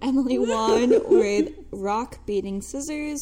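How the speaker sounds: slow, announcer-style sports call; sports newscaster. Pretend. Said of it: "You sound like a sports newscaster".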